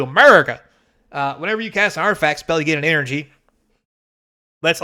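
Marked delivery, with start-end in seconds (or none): 0.0-0.6 shouted. Pretend. Jokes about red, white and blue.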